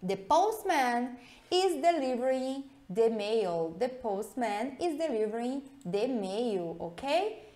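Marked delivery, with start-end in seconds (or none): 0.1-3.8 slow read. Shown as a demonstration. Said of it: "Dá uma olhada nessa frase aqui".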